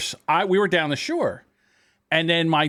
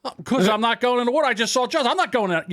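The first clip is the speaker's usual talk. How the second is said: put-on scared kid; 7 semitones higher, faster than usual. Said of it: "I said".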